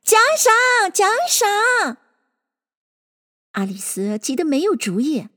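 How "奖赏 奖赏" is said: high-pitched chanting demand; clamor for it like a crowd, voice pitched way up. A narrator's reading. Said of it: "围着他乱嚷".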